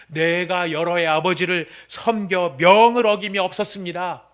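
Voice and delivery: loud, slow, indignant outburst; furious son. Acted. Older son shouting indignantly at his father, slow and loud. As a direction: throw it at the father in outrage. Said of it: "아들이 격분하면서 막 외치는".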